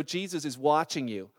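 a hint of an unseen watcher; mysterious voice. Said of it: "he hears this voice from the".

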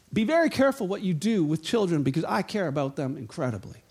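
earnest warning. Retold or imitated. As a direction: say it gently but gravely. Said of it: "tags on to it and says".

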